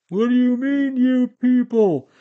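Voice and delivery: hammed-up offended yelp, stretched out; mock indignant comeback.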